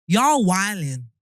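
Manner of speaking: slow, drawn-out American slang; amateur American catchphrase; American accent. Acted. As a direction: stretch it out in an attempted American accent. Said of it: "what phrase do they have?".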